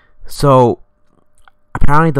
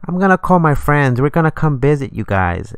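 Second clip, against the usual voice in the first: higher, lightly put-on child's voice; little kid voice; 5 semitones higher than usual. Little kid at the mail slot warning them, higher child voice. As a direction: imitate a little kid making a playful threat. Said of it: "the little hand's, like, giggling".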